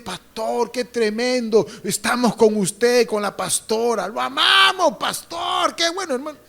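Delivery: lightly voiced fawning churchgoer; mock flattering church member. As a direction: gush like a flatterer to the pastor. Pastor voicing flattering congregants.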